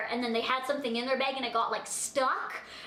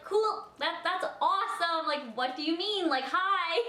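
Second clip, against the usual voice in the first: sarcastic; 5 semitones higher than usual. Retold or imitated. Sarcastic reply to security.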